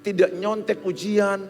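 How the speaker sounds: high, loud, driving sermon voice; preacher pressing the students to stay honest, full force preaching; fiery preaching. Acted. High loud fervent sermon.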